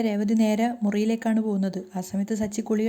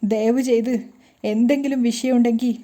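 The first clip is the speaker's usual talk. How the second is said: crying plea; 4 dB louder than usual. Acted. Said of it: "കരഞ്ഞുകൊണ്ട് തന്നെ രേവതി പറയാണ്".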